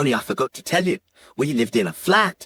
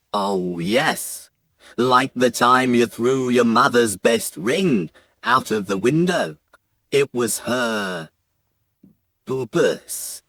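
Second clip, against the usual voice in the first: lightly voiced dad, lower and measured; a hint of a grave father, pausing before the last word; dad recalling misdeed; 4 semitones lower, slower than usual. Dad reminding his son of the ring, grave telling. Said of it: "So my dad says".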